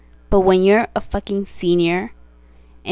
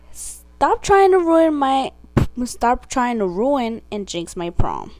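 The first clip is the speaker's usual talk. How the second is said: slow emphatic anger; 3 semitones higher, slower than usual. Real, not acted. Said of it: "reiterate my tweet".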